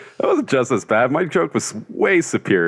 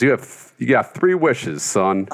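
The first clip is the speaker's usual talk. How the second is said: genie; 4 semitones higher, slower than usual. Acted. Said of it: "'cause he talks like that".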